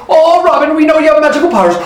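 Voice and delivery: high-pitched, hurried-sounding plea; pleading. Acted. Three thieves begging Robin, pleading.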